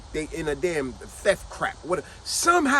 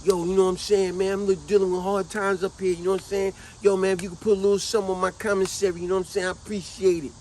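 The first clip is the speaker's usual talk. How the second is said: imitating begging inmate. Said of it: "it goes something like this".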